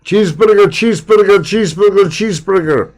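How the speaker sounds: put-on high, loud Greek diner accent; Greek diner cook. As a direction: bark orders like a short-order cook. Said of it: "That's the old Saturday Night Live".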